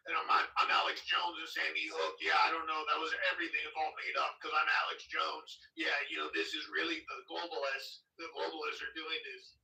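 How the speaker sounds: lightly voiced conspiracy rant with a scraggly edge; a hint of Alex Jones ranting about globalists; Alex Jones impression. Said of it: "the guy with the scraggly voice, Alex Jones".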